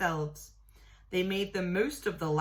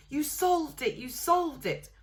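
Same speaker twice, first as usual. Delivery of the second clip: excited scream; 9 semitones higher than usual. A narrator's reading.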